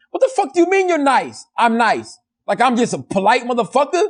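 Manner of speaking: high, incredulous retort, retold; mock affronted. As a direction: play insulted by a compliment. Acting out offence at a compliment.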